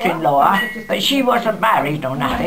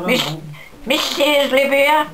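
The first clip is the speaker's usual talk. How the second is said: put-on American accent; 6 semitones higher, slower than usual. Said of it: "you know where they talk".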